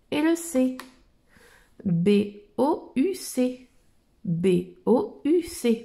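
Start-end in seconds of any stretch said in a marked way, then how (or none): 1.8-3.7 slow spelling. Shown as a demonstration. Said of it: "B, le O". 4.2-5.8 slow spelling. Shown as a demonstration. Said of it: "B, le O".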